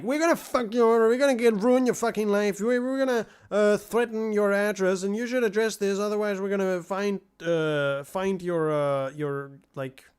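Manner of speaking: hammed-up menace as if they're coming for you; shouting a mock threat at the streamer. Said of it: "they wanna be threatening".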